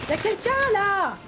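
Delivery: slow, loud call out; startled shouted alert; alarmed shout. Real, not acted. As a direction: warn that someone's there. Spotting enemy.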